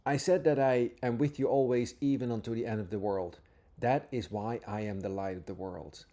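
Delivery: scripture reading. Acted. Teacher reading Jesus' words to listeners, earnest and reverent. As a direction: read each line as if it is holy.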